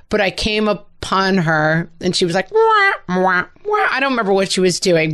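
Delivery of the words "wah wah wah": high mock whining "wah, wah"; annoying wah sound. Mother mimicking her daughter's annoying wah sound. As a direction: imitate a kid making an annoying noise. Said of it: "she was making this sound".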